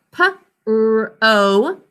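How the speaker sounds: each sound said apart; letter sounds. Shown as a demonstration. Teacher sounds out the first syllable for the class. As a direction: sound out p, r, o one by one. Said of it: "three sounds".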